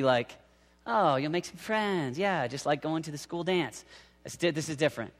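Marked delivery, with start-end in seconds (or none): 0.8-3.8 mock-cheesy aside in an easy voice; cheesy, goofy. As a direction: lightly put on a corny, goofy tone. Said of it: "kind of a cheesy, kind of goofy".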